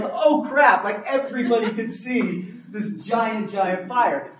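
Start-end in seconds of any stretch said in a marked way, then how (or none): 0.0-0.8 sudden high "Oh, crap"; a teen caught out, hammed up; playful imitated shock; mock alarm. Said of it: "now they're like".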